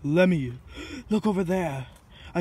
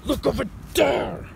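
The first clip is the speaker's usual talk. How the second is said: higher, exasperated cry rising at the end; exasperated insistence; 6 semitones higher than usual. Acted. Yokai scolds doubter who isn't looking, exasperated insistence. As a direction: insist with pitch jumping up. Repeats after not being heeded.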